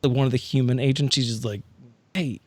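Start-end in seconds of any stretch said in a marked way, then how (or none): none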